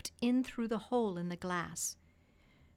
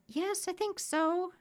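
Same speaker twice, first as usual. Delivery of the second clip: high-pitched little duck voice; high cartoon duck; duck character; 12 semitones higher, 4 dB louder than usual. A narrator's reading. Duck's voice.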